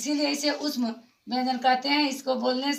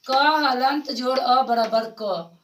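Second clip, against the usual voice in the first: slow spelling out; 3 dB louder, slower than usual. Shown as a demonstration. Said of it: "teacher spells out letters".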